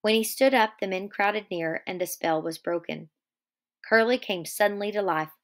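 steady read-aloud of the novel; story narration. A narrator's reading. Teacher reading Of Mice and Men aloud to class, steady narration.

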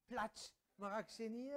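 loud drawn-out slap of soup; mock soup splat. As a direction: slop it down loudly, stretched out. Acts mother dishing out soup.

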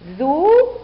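long separated syllables with pauses; teacher's slow sounding-out. Shown as a demonstration. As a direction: break ذباب into dhu - baa - bun. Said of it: "لنقرأ".

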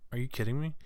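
shocked, offended pitch jump; indignant disbelief. Real, not acted. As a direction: leap up in pitch, outraged. Outraged reaction to bigotry.

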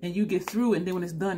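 ordinary delivery

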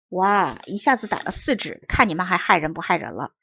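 mildly hammed-up gleeful exclamation; delighted shout. Farmer has caught four weasels, moderately gleeful exclaiming. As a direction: crow with delight, lightly acted. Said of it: "农民高兴地大喊道".

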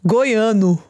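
"Goiano" in a light American accent, vowels a bit open. Shown as a demonstration. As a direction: try "Goiano" like an American learner. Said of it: "With an American accent, but it's correct".

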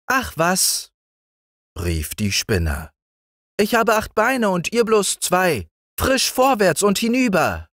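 sehr hohes, feines Stimmchen; Spinnenstimme. A narrator's reading. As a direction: als winzige Spinne antworten. (Spinne antwortet den Kindern mit sehr hohem Stimmchen)

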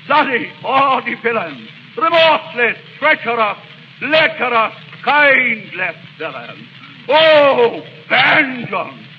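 mounting rage, spitting each insult; furious tirade. Acted. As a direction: build to a cry for vengeance. Hamlet rages at his uncle.

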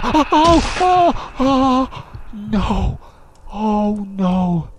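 high, loud, frightened wails; panicked screaming. Real, not acted. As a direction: cry out in real panic. Slasher attack again.

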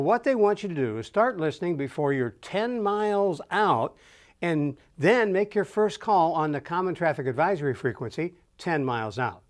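ordinary delivery

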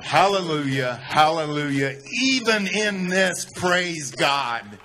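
loud, high cry of praise; retold yell. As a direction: shout it out like a wounded Marine calling on God. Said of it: "he yells out".

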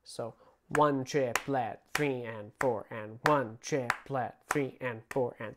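"one triplet, three and four and" counted slowly; teacher's slow count; slow counting demo. Shown as a demonstration. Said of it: "That's how I usually count it".

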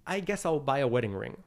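resigned, half-hearted decision; going through the motions; unenthusiastic. Retold or imitated. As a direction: say it with very little enthusiasm. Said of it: "with that level of enthusiasm".

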